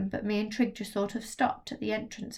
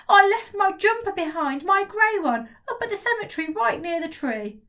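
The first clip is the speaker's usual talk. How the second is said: put-on higher, louder anxious kid's confession; upset boy Trig; 10 semitones higher, 6 dB louder than usual. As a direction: blurt it like a worried boy. Trig confessing lost jumper.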